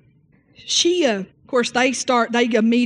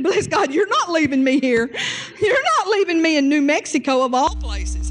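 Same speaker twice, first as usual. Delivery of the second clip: higher, firm wife's voice; raised-pitch wife scolding; commanding wife; 6 semitones higher than usual. Retold or imitated. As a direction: insist he's not leaving you. Wife commanding husband live.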